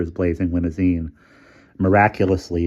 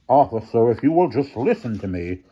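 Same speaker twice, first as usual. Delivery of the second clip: reasoning; 4 semitones higher than usual. A narrator's reading. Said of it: "trying to reason with Featherstone".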